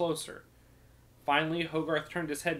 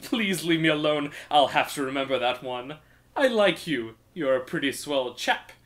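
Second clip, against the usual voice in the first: sing-song minstrel; 4 dB louder than usual. Acted. Minstrel describing his travels to the thief in annoying sing-song. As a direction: lilt it like a pleased bard.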